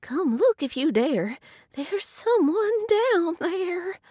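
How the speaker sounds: lightly voiced badger, slowing at the end; daring badger. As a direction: dare them to look, drawing out the last words. Badger warns at deep hole.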